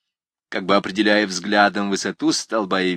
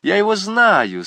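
rowdy schoolboy shout; 9 semitones higher, 4 dB louder, much slower than usual. A narrator's reading. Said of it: "сказал один".

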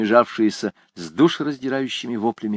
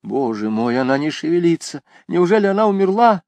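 frightened; 6 semitones higher than usual. A narrator's reading. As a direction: panic as she fears death. Fearing she is dead.

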